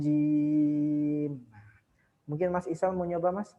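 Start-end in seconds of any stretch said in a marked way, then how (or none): 0.1-1.3 "Ar-rajim" with the r held and trilled, very slow; held rolled r. Shown as a demonstration. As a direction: draw out the r in "Ar-rajim". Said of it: "tahan dulu pokoknya".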